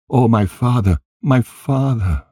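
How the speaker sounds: understated tearful lament, no sobbing; mild weeping cry. A narrator's reading. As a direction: cry out for a father in mild anguish. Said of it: "continued to cry and weep".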